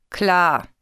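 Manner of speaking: mildly scornful, unconvinced; a touch of sceptical dismissal; dismissive. A narrator's reading. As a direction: brush it off in disbelief. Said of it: "seufzt das Herz abweisend".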